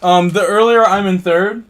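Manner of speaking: words pushed through a burp. Real, not acted. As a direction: talk while holding back a burp. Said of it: "I'm, like, burping".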